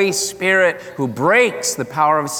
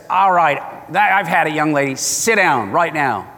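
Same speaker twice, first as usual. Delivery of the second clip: stern dad. Retold or imitated. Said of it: "and the dad says".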